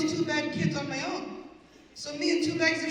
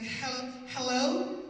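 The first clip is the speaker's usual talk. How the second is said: mimicking husband's new phone voice; slower than usual. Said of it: "I thought there was a white guy in my house".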